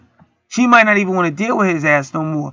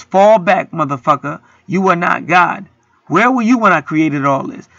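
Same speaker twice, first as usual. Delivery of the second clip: God scolding Job. Acted. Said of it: "the word that God gave to Job was".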